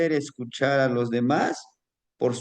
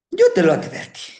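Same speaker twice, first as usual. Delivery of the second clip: stern warning; 5 semitones higher, 6 dB louder, faster than usual. Acted. Donkey's final warning.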